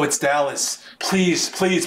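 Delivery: normal talking voice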